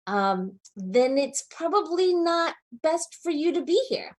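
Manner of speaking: firm official dean laying down expectations; measured, deliberate warning from a dean, lifting in pitch at the close; lightly put-on voice of authority; Dean of Students voice. Real, not acted. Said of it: "saying this in my Dean of Students voice".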